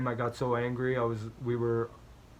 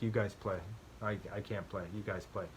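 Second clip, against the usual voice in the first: sulky, trailing off much softer; pouting; 3 semitones lower, 9 dB quieter, faster than usual. Retold or imitated. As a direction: mumble it like a sulking loser. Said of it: "pouted and quit a game".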